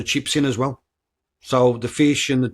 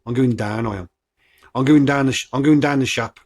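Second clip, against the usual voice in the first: Black Country "down" said as "daan"; Black Country accent. Shown as a demonstration. Podcaster showing how locals talk, Black Country accent. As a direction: lay on the Black Country vowels. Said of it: "that's how we say".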